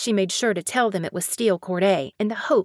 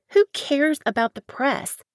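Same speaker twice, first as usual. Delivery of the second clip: higher and louder on who; dismissive outburst; 6 semitones higher, 4 dB louder than usual. Acted. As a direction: brush the press aside sharply. She dismisses the press.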